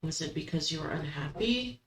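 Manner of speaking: ordinary talk, nothing marked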